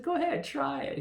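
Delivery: squeaky high challenging voice; high mock dare. Zaius daring him.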